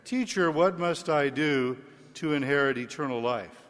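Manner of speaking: solemn liturgical Gospel reading. Real, not acted. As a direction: proclaim it like scripture at Mass. Priest proclaims the Gospel.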